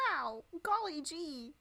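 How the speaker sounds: lightly voiced wholesome gee-whiz friend; overly sweet goody-goody voice. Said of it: "Cindy's like".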